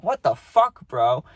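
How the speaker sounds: yelling at the cop who threw him down; outraged yell. Retold or imitated. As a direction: snap back in shock and anger. Thrown down by cop.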